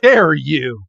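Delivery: slow, indignant shout; hammed-up outrage; mock offended shout. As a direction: bellow it like a wounded diva. Friend acting offended in retold scene.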